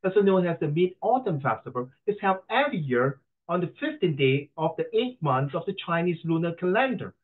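lightly mocking Western-accented recitation; imitated foreigner's English accent. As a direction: read aloud in a put-on Western accent. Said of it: "老外在讲英文".

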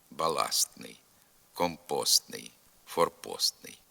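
баластний, компостний, форпостний with a faint т before н; only hint at т in баластний, компостний, форпостний; weakened т. Shown as a demonstration. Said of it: "лише з натяком на звук Т".

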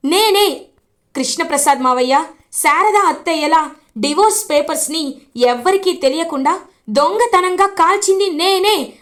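నేనే said high and loud, pushing out the admission; loud confession. Acted. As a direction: own up boldly, loudly. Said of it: "అని గట్టిగా చెప్తుంది భూమి".

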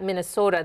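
"Minnesota" with a tight, long single-vowel O. Shown as a demonstration. Coach naming the local accent's signifier, "Minnesota" with tight O. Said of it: "that tight, long O".

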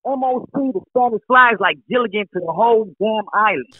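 loud shout down a phone line. Real, not acted. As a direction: yell it so the line carries. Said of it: "let me stop screaming".

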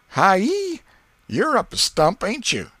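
put-on high, loud jeering boy's voice; teasing boy. Ben taunting Tom at fence, high and loud. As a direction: needle him like a cocky kid.

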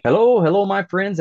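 big high hello to the crowd; loud greeting. Real, not acted. Host welcoming back his podcast audience with a loud, high hello. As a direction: boom out the welcome.

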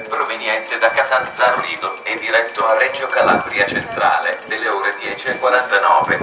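steady, measured PA announcement over speakers; flat formal station announcement. Real, not acted. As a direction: read it like an automated platform announcement. Train station loudspeaker announcement.

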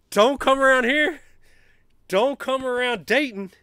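high, loud trash talk shouted at VCU; gloating taunt. Real, not acted. Fan taunting VCU players after a blowout, gloating yells. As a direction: yell taunts at the losing team.

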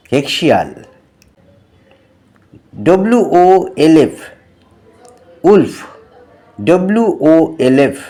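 put-on teacher reading vocabulary to children; spelling lesson for kids.

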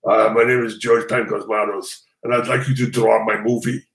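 a rough, smoky Greek accent impression; terrible Greek accent. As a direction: put on a bad Greek accent, like a heavy smoker. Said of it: "I'm gonna do a terrible accent".

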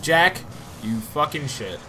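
yelled name then muttered curse; angry at the character. Real, not acted. Cursing at game character.

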